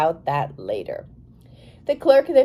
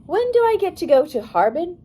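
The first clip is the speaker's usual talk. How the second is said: higher, insistent demand; firm challenge to the guard; commanding voice; 8 semitones higher than usual. A narrator's reading. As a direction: ask it as if giving an order. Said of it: "in her most commanding voice".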